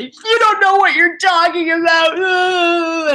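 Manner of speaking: frustrated wife yelling at husband; angry retort. Retold or imitated. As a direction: shout back at the husband. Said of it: "I'd say".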